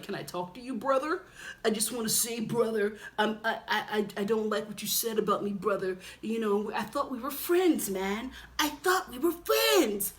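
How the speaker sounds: Kenny's gentle voice. Retold or imitated. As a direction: do him wounded and sweet, not tough. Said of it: "he's like".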